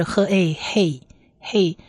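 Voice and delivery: 呵 and a apart, then blended into hey; sounding out syllables. Shown as a demonstration. Teacher adds short vowel to the consonant, sounding out 呵a hey. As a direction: slowly join 呵 plus a into hey, repeat hey. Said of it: "呵的音加上下面的小葡萄".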